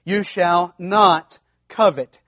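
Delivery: the second solemn take of the command; emphatic repeat. Shown as a demonstration. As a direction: stress on not, slow and firm. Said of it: "notice he says it twice".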